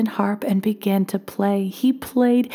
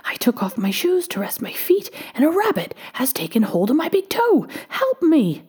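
high-pitched plea, rising in distress; crying little man; 7 semitones higher than usual. A narrator's reading. Little man explains his trapped toe, high pleading cry. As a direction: climb higher towards the final cry. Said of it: "cried the little man".

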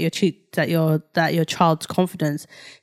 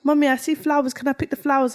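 higher, lightly voiced small boy; little child's voice; 6 semitones higher than usual. Son asking mum to pick flowers, childlike. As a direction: ask it like an eager toddler. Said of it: "his little baby voice".

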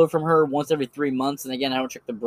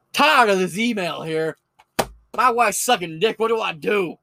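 mock twins voice; 4 semitones higher than usual. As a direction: send up the hosts reading listener mail. Reads mock letter as the twins.

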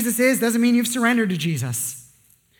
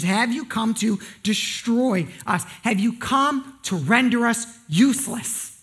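slow dramatic; slower than usual. Acted. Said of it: "the demon asks the question".

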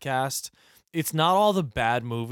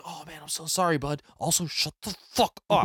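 fake apology. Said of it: "I'm like".

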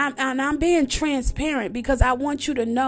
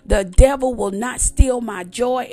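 defiant declaration; 6 dB louder than usual. Retold or imitated. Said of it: "come against that".

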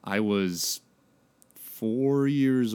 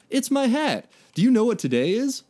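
put-on much higher, eager kid voice; enthusiastic; 12 semitones higher, 4 dB louder than usual. A narrator's reading. Mike showing off his hat to Raph, high and eager. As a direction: bounce it up with eager excitement. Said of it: "said enthusiastically".

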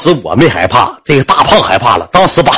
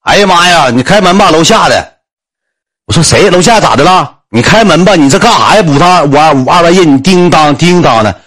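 neighbour complaining; 5 semitones higher than usual. Retold or imitated. Downstairs neighbour complaining at door.

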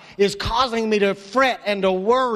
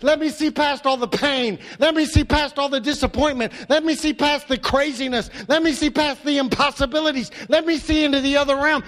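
prayer; 4 semitones higher than usual. Shown as a demonstration. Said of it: "we're gonna say".

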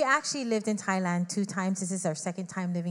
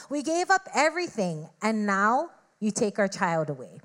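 retold angry prayer. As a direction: replay the hurt outburst, rising on gave up. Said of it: "I was upset with God".

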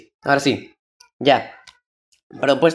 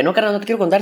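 talking too fast; 3 semitones higher than usual. Retold or imitated. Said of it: "empecé a hablar muy rápido".

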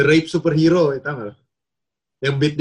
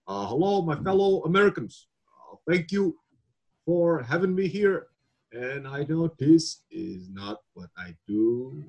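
slow, halting Obama, softer; Obama impression; 6 dB quieter, slower than usual. Shown as a demonstration. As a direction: pause on every "uh" like Obama. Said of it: "Ini Obama tuh gini".

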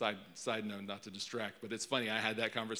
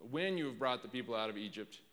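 emphatic "when", then read on evenly; stress on "when". Shown as a demonstration. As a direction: hit "when" with a raised inflection. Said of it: "put an inflection on that one".

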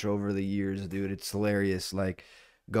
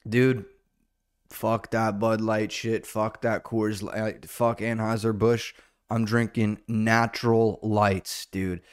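redneck voice; slower than usual. Retold or imitated. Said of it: "they're like".

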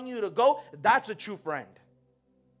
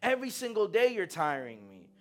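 weary groan; 3 semitones lower, 6 dB quieter than usual. Retold or imitated. Drained person, low soft slow.

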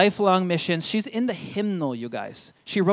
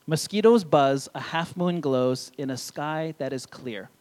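slow storybook reading; 3 semitones lower, slower than usual. Acted.

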